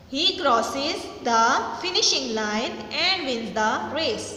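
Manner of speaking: very slow, every word spaced out for the class; slow dictation read. Shown as a demonstration. Teacher reading a sentence to students, very slow and deliberate. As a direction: read it slowly, word by word, so students can follow. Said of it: "teacher reads the sentence aloud".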